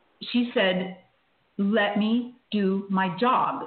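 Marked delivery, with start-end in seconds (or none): 1.6-3.7 play-acted very curt tone, very slow and drawn out. Retelling what the nurse said in the corner: imitating a curt tone. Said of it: "in a very curt tone".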